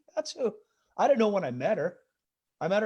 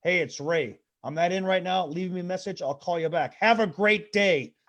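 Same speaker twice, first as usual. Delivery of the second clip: stiff new message; 4 dB louder than usual. Retold or imitated. Dad re-records his message, still stiff. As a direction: read it off paper, force a nicer sign-off. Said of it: "my dad's new outgoing message".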